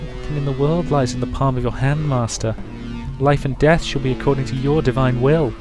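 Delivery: put-on high, adoring young girl; devoted girl voice. Devoted girl speaks to master.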